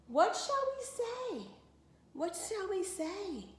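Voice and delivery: fretting in a hurried hush; feverish whisper. Acted. Sisters panicking together over the answer, feverish whisper. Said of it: "whispering feverishly again".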